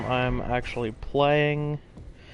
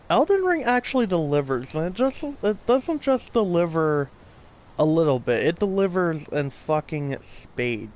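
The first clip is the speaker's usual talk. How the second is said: excited; 4 semitones higher than usual. Real, not acted. Enthusiastic praise.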